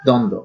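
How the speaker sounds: দ্বন্দ্ব as "dondo", both b signs silent; correct pronunciation. Shown as a demonstration. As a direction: say দ্বন্দ্ব with no b sound. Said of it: "এর সঠিক উচ্চারণ হচ্ছে".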